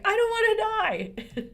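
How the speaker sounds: high, loud mock wail over going gray; half-laughing fake sob of despair; mock crying wail. Retelling her gray-hair meltdown to her daughter, hammed-up wail. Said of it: "I started crying".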